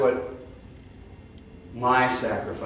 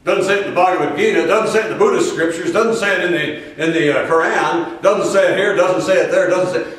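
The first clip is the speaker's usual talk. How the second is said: fast, louder scoffing doubter listing scriptures; mock skeptic; 3 semitones higher, 3 dB louder than usual. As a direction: rattle off the objections like a know-it-all. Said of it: "Other than".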